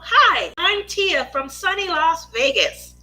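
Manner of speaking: pageant contestant introducing herself; lively pageant intro with swooping pitch; Miss America voice. Pretend. Streamer introducing herself to newcomers, in a Miss America voice. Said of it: "working on my Miss America voice".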